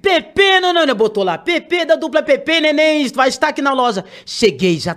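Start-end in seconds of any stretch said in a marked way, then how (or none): 0.0-0.9 announcer call. Retold or imitated. Store announcer calls her arrival. 1.4-4.0 mock announcer. Imitating the store announcement.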